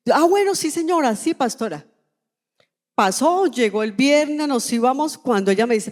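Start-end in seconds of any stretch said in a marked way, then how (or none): 0.1-1.8 a lightly voiced, higher, eager yes from the sister; hint of the sister's eager agreement; eager agreeing sister. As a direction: play the sister gladly saying yes, pitched up. Sister agreeing to accompany her.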